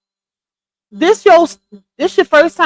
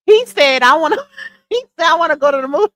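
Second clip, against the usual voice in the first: retelling his answer through laughter; real laughter; 4 semitones higher, much faster than usual. Real, not acted. Host retells the son's movie answer to viewers, laughing. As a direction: laugh breaking into the quote, pitch raised. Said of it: "That's why I'm laughing".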